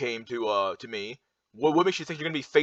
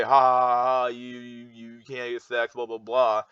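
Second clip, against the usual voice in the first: mocking laugh. Imitating people who laugh at sexless men, mocking. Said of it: "it's easy to just laugh and say".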